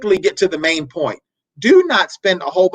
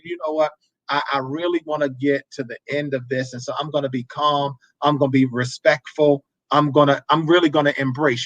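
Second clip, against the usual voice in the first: calm talk; 3 semitones lower than usual. Shown as a demonstration. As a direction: show how calm talking sounds. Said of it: "I can really talk like this and say".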